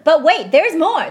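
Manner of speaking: slow, loud pitchman hype; infomercial. Acted. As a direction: draw it out like a TV ad. Infomercial catchphrase, said slowly.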